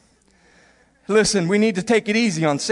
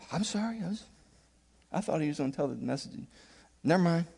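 much softer, embarrassed backing down; sheepish apology; 5 semitones lower, 13 dB quieter, faster than usual. Retold or imitated. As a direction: shrink away and mumble sorry. Sheepish apology after being scolded.

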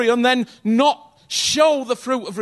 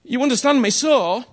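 ordinary delivery

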